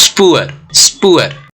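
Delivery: स्पुअर with a drawn-out oo gliding into 'अर'; clear 'अर' ending. Shown as a demonstration. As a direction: let स्पुअर end on a clear falling 'अर'. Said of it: "अर का sound create हो रहा है". (स्पुअर के अंत में साफ़ 'अर')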